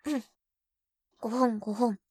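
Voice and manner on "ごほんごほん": hammed-up ahem; mock throat clearing. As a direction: fake cough before an impression. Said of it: "先輩のモノマネ".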